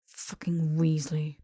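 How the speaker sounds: unvoiced, slow, ground-out curse; slow whispered curse; muttered under breath. A narrator's reading. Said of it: "Draco ground out under his breath".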